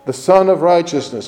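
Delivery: Sun held up and stressed, not son. Shown as a demonstration. Preacher spelling out Sun to the faithful, stressing Sun. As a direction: lean on the word Sun, spelled-out sense. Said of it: "S U N".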